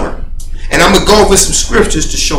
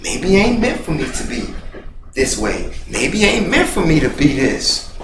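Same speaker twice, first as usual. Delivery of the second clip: self-pity; 4 semitones lower, 7 dB quieter than usual. Retold or imitated. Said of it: "And I, I was like that".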